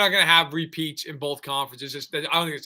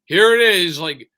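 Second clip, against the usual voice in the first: mocking Rodgers; 7 dB louder than usual. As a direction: ham up the defiant quarterback. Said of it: "puts his gross foot up on the platform and say".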